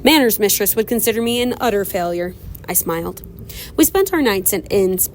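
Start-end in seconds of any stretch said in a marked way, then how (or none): 0.0-2.3 put-on Southern accent. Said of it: "he turned from Irish to Southern".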